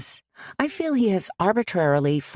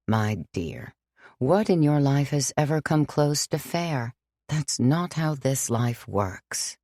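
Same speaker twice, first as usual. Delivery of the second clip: put-on tender but firm old priest; lightly voiced gentle priest; 2 semitones lower than usual. Father John gently telling Sam life is unfair.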